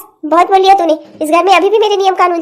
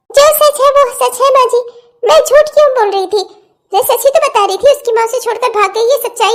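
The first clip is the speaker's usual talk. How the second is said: defiant retort; 3 semitones higher than usual. Acted. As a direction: insist you only told the truth. Aunt defends herself to mother-in-law.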